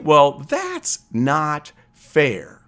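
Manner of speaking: very slow, drawn-out sulky protest; inner complaint. Retold or imitated. Picturing the viewer's thoughts as a slow sulky child's protest. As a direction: stretch it out like a wronged kid. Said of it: "And you think".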